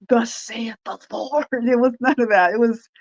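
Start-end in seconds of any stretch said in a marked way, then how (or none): 0.1-1.5 slow, mock-grand pulpit voice; mock thundering preacher proclaiming; theatrical preacher. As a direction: ham up the old-time prophet, slowly. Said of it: "there was no theatrical anything in it".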